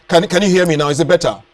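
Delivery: speaking up over a faint phone line. Real, not acted. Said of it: "really elevate my voice".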